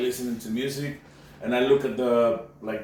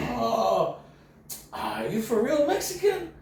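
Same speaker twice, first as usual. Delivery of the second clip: imitated cop, higher pitch; 11 semitones higher, slower than usual. Cop voiced in story.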